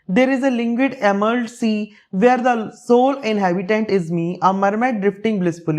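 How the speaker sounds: unhurried recitation of a dreamy verse; slow poem reading. Acted. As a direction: read it out slowly, line by line. Reads the daydream stanza.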